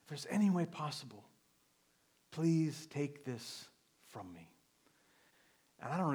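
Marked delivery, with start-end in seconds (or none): 0.0-4.5 mild quoted plea. Retold or imitated. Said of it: "begging his Father".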